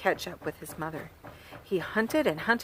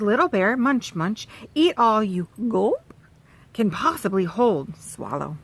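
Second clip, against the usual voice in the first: mother bear coaxing; 4 dB louder than usual. Acted.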